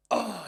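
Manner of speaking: mock groan from a body blow; imitated winded groan. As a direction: act out being hit in the gut. Retells opponent hit in the body.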